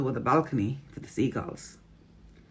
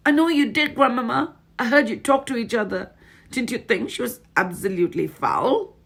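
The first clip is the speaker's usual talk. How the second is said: put-on eager boy voice; 9 semitones higher, 5 dB louder than usual.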